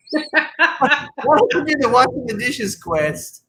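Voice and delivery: laughing while delivering the joke line; laughing through it. Real, not acted. To his ex-wife, mocking her game errands, laughing. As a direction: chuckle through the mock question, slow.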